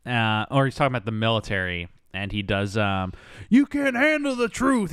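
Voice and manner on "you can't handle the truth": mock Jack Nicholson, high and slow; Nicholson impression. Pauly Shore's Nicholson impression, slow and hammed-up. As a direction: ham up the famous courtroom line. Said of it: "That's my Nicholson impression".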